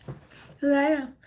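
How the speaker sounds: laughing admission. Real, not acted. Laughing at herself.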